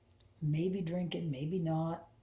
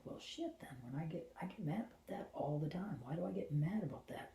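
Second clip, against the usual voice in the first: hushed, much softer self-questioning; whispered realization; 6 dB quieter than usual. Retold or imitated. Realizing her anger comes from her inner child, softly. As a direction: mutter it to yourself quietly.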